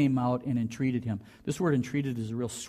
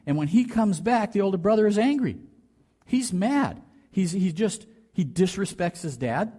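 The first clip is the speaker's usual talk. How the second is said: heated emphasis; 6 semitones higher, 3 dB louder than usual. Real, not acted. Describing elder son's anger.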